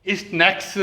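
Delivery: 'is-naiks' for स्नैक्स, pronounced distinctly; leading 'is' sound. Shown as a demonstration. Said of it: "देखिए sound देखिए".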